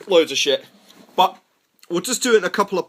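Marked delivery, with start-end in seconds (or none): none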